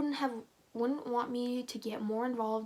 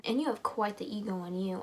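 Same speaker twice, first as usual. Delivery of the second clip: firing back; 4 dB louder than usual. Acted. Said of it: "I fire back".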